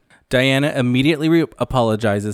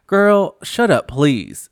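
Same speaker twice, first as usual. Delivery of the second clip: much higher and louder, fed up; exasperated snap; 5 semitones higher, 4 dB louder, much slower than usual. Real, not acted. Vlogger snapping at Kyle's confessional, exasperated. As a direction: shut her down in disbelief.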